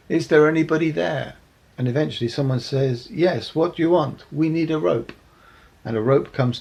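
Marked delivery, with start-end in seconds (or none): 0.1-1.4 higher, louder call for help; yelling up. Acted. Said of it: "yelling up to the top". 3.1-4.3 higher, louder answer from above; calling back. Acted. Voice from above answers pit callers. 4.3-5.1 higher, raised-voice plea; calling up. Acted. People in pit call up.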